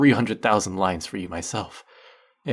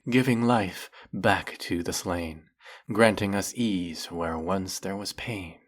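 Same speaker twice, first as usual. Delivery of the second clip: reciting epic verse. Acted. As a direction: recite it like a proud court poet. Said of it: "four of them will go like".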